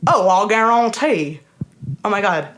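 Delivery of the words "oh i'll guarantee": imitation of a Louisiana Creole speaker; Louisiana Creole accent. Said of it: "Do an imitation".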